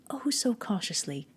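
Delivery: hushed unvoiced whisper, creeping. A narrator's reading. Narrator whispering while opening the lantern. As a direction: breathe it out as if not to wake him.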